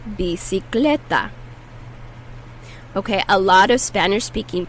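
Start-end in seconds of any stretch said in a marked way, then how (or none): 0.1-1.3 "Bicicleta" at natural pace, c as s then k; model word at normal speed. Shown as a demonstration. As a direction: say "Bicicleta" fluently once more. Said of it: "The first C is pronounced like an S".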